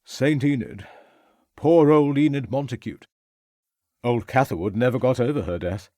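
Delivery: put-on brash young gentleman, a bit tipsy; young toff voice. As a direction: careless upper-class young man.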